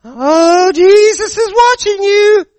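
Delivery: high, slow parrot squawk. Acted. Parrot taunting the robber, high and slow. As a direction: drag it out like a smug parrot. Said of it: "parrot repeats".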